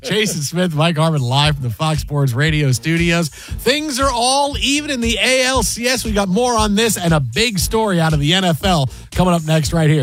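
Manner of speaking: punchy sports-radio announcer read, slowing right down on the final station name; radio sign-off. Real, not acted. Host teasing the next story before the break, radio announcer sign-off.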